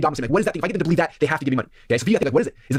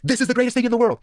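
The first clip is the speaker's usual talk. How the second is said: much higher, bursting with enthusiasm; excited quote; 9 semitones higher than usual. Retold or imitated. A convert blurting out his new passion, much higher and excited. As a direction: sell it like a sudden revelation.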